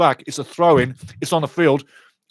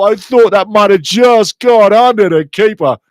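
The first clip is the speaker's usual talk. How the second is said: excited; 5 semitones higher, 6 dB louder than usual. Real, not acted. Right after near-miss shot.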